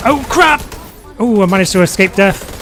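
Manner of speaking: real high-pitched alarm at a close call; startled outburst. Real, not acted. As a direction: blurt it high and loud, then relief. Near death in the game.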